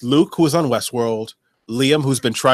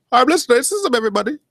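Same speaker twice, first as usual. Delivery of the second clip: mock announcement; 11 semitones higher than usual. Jokey announcement to audience.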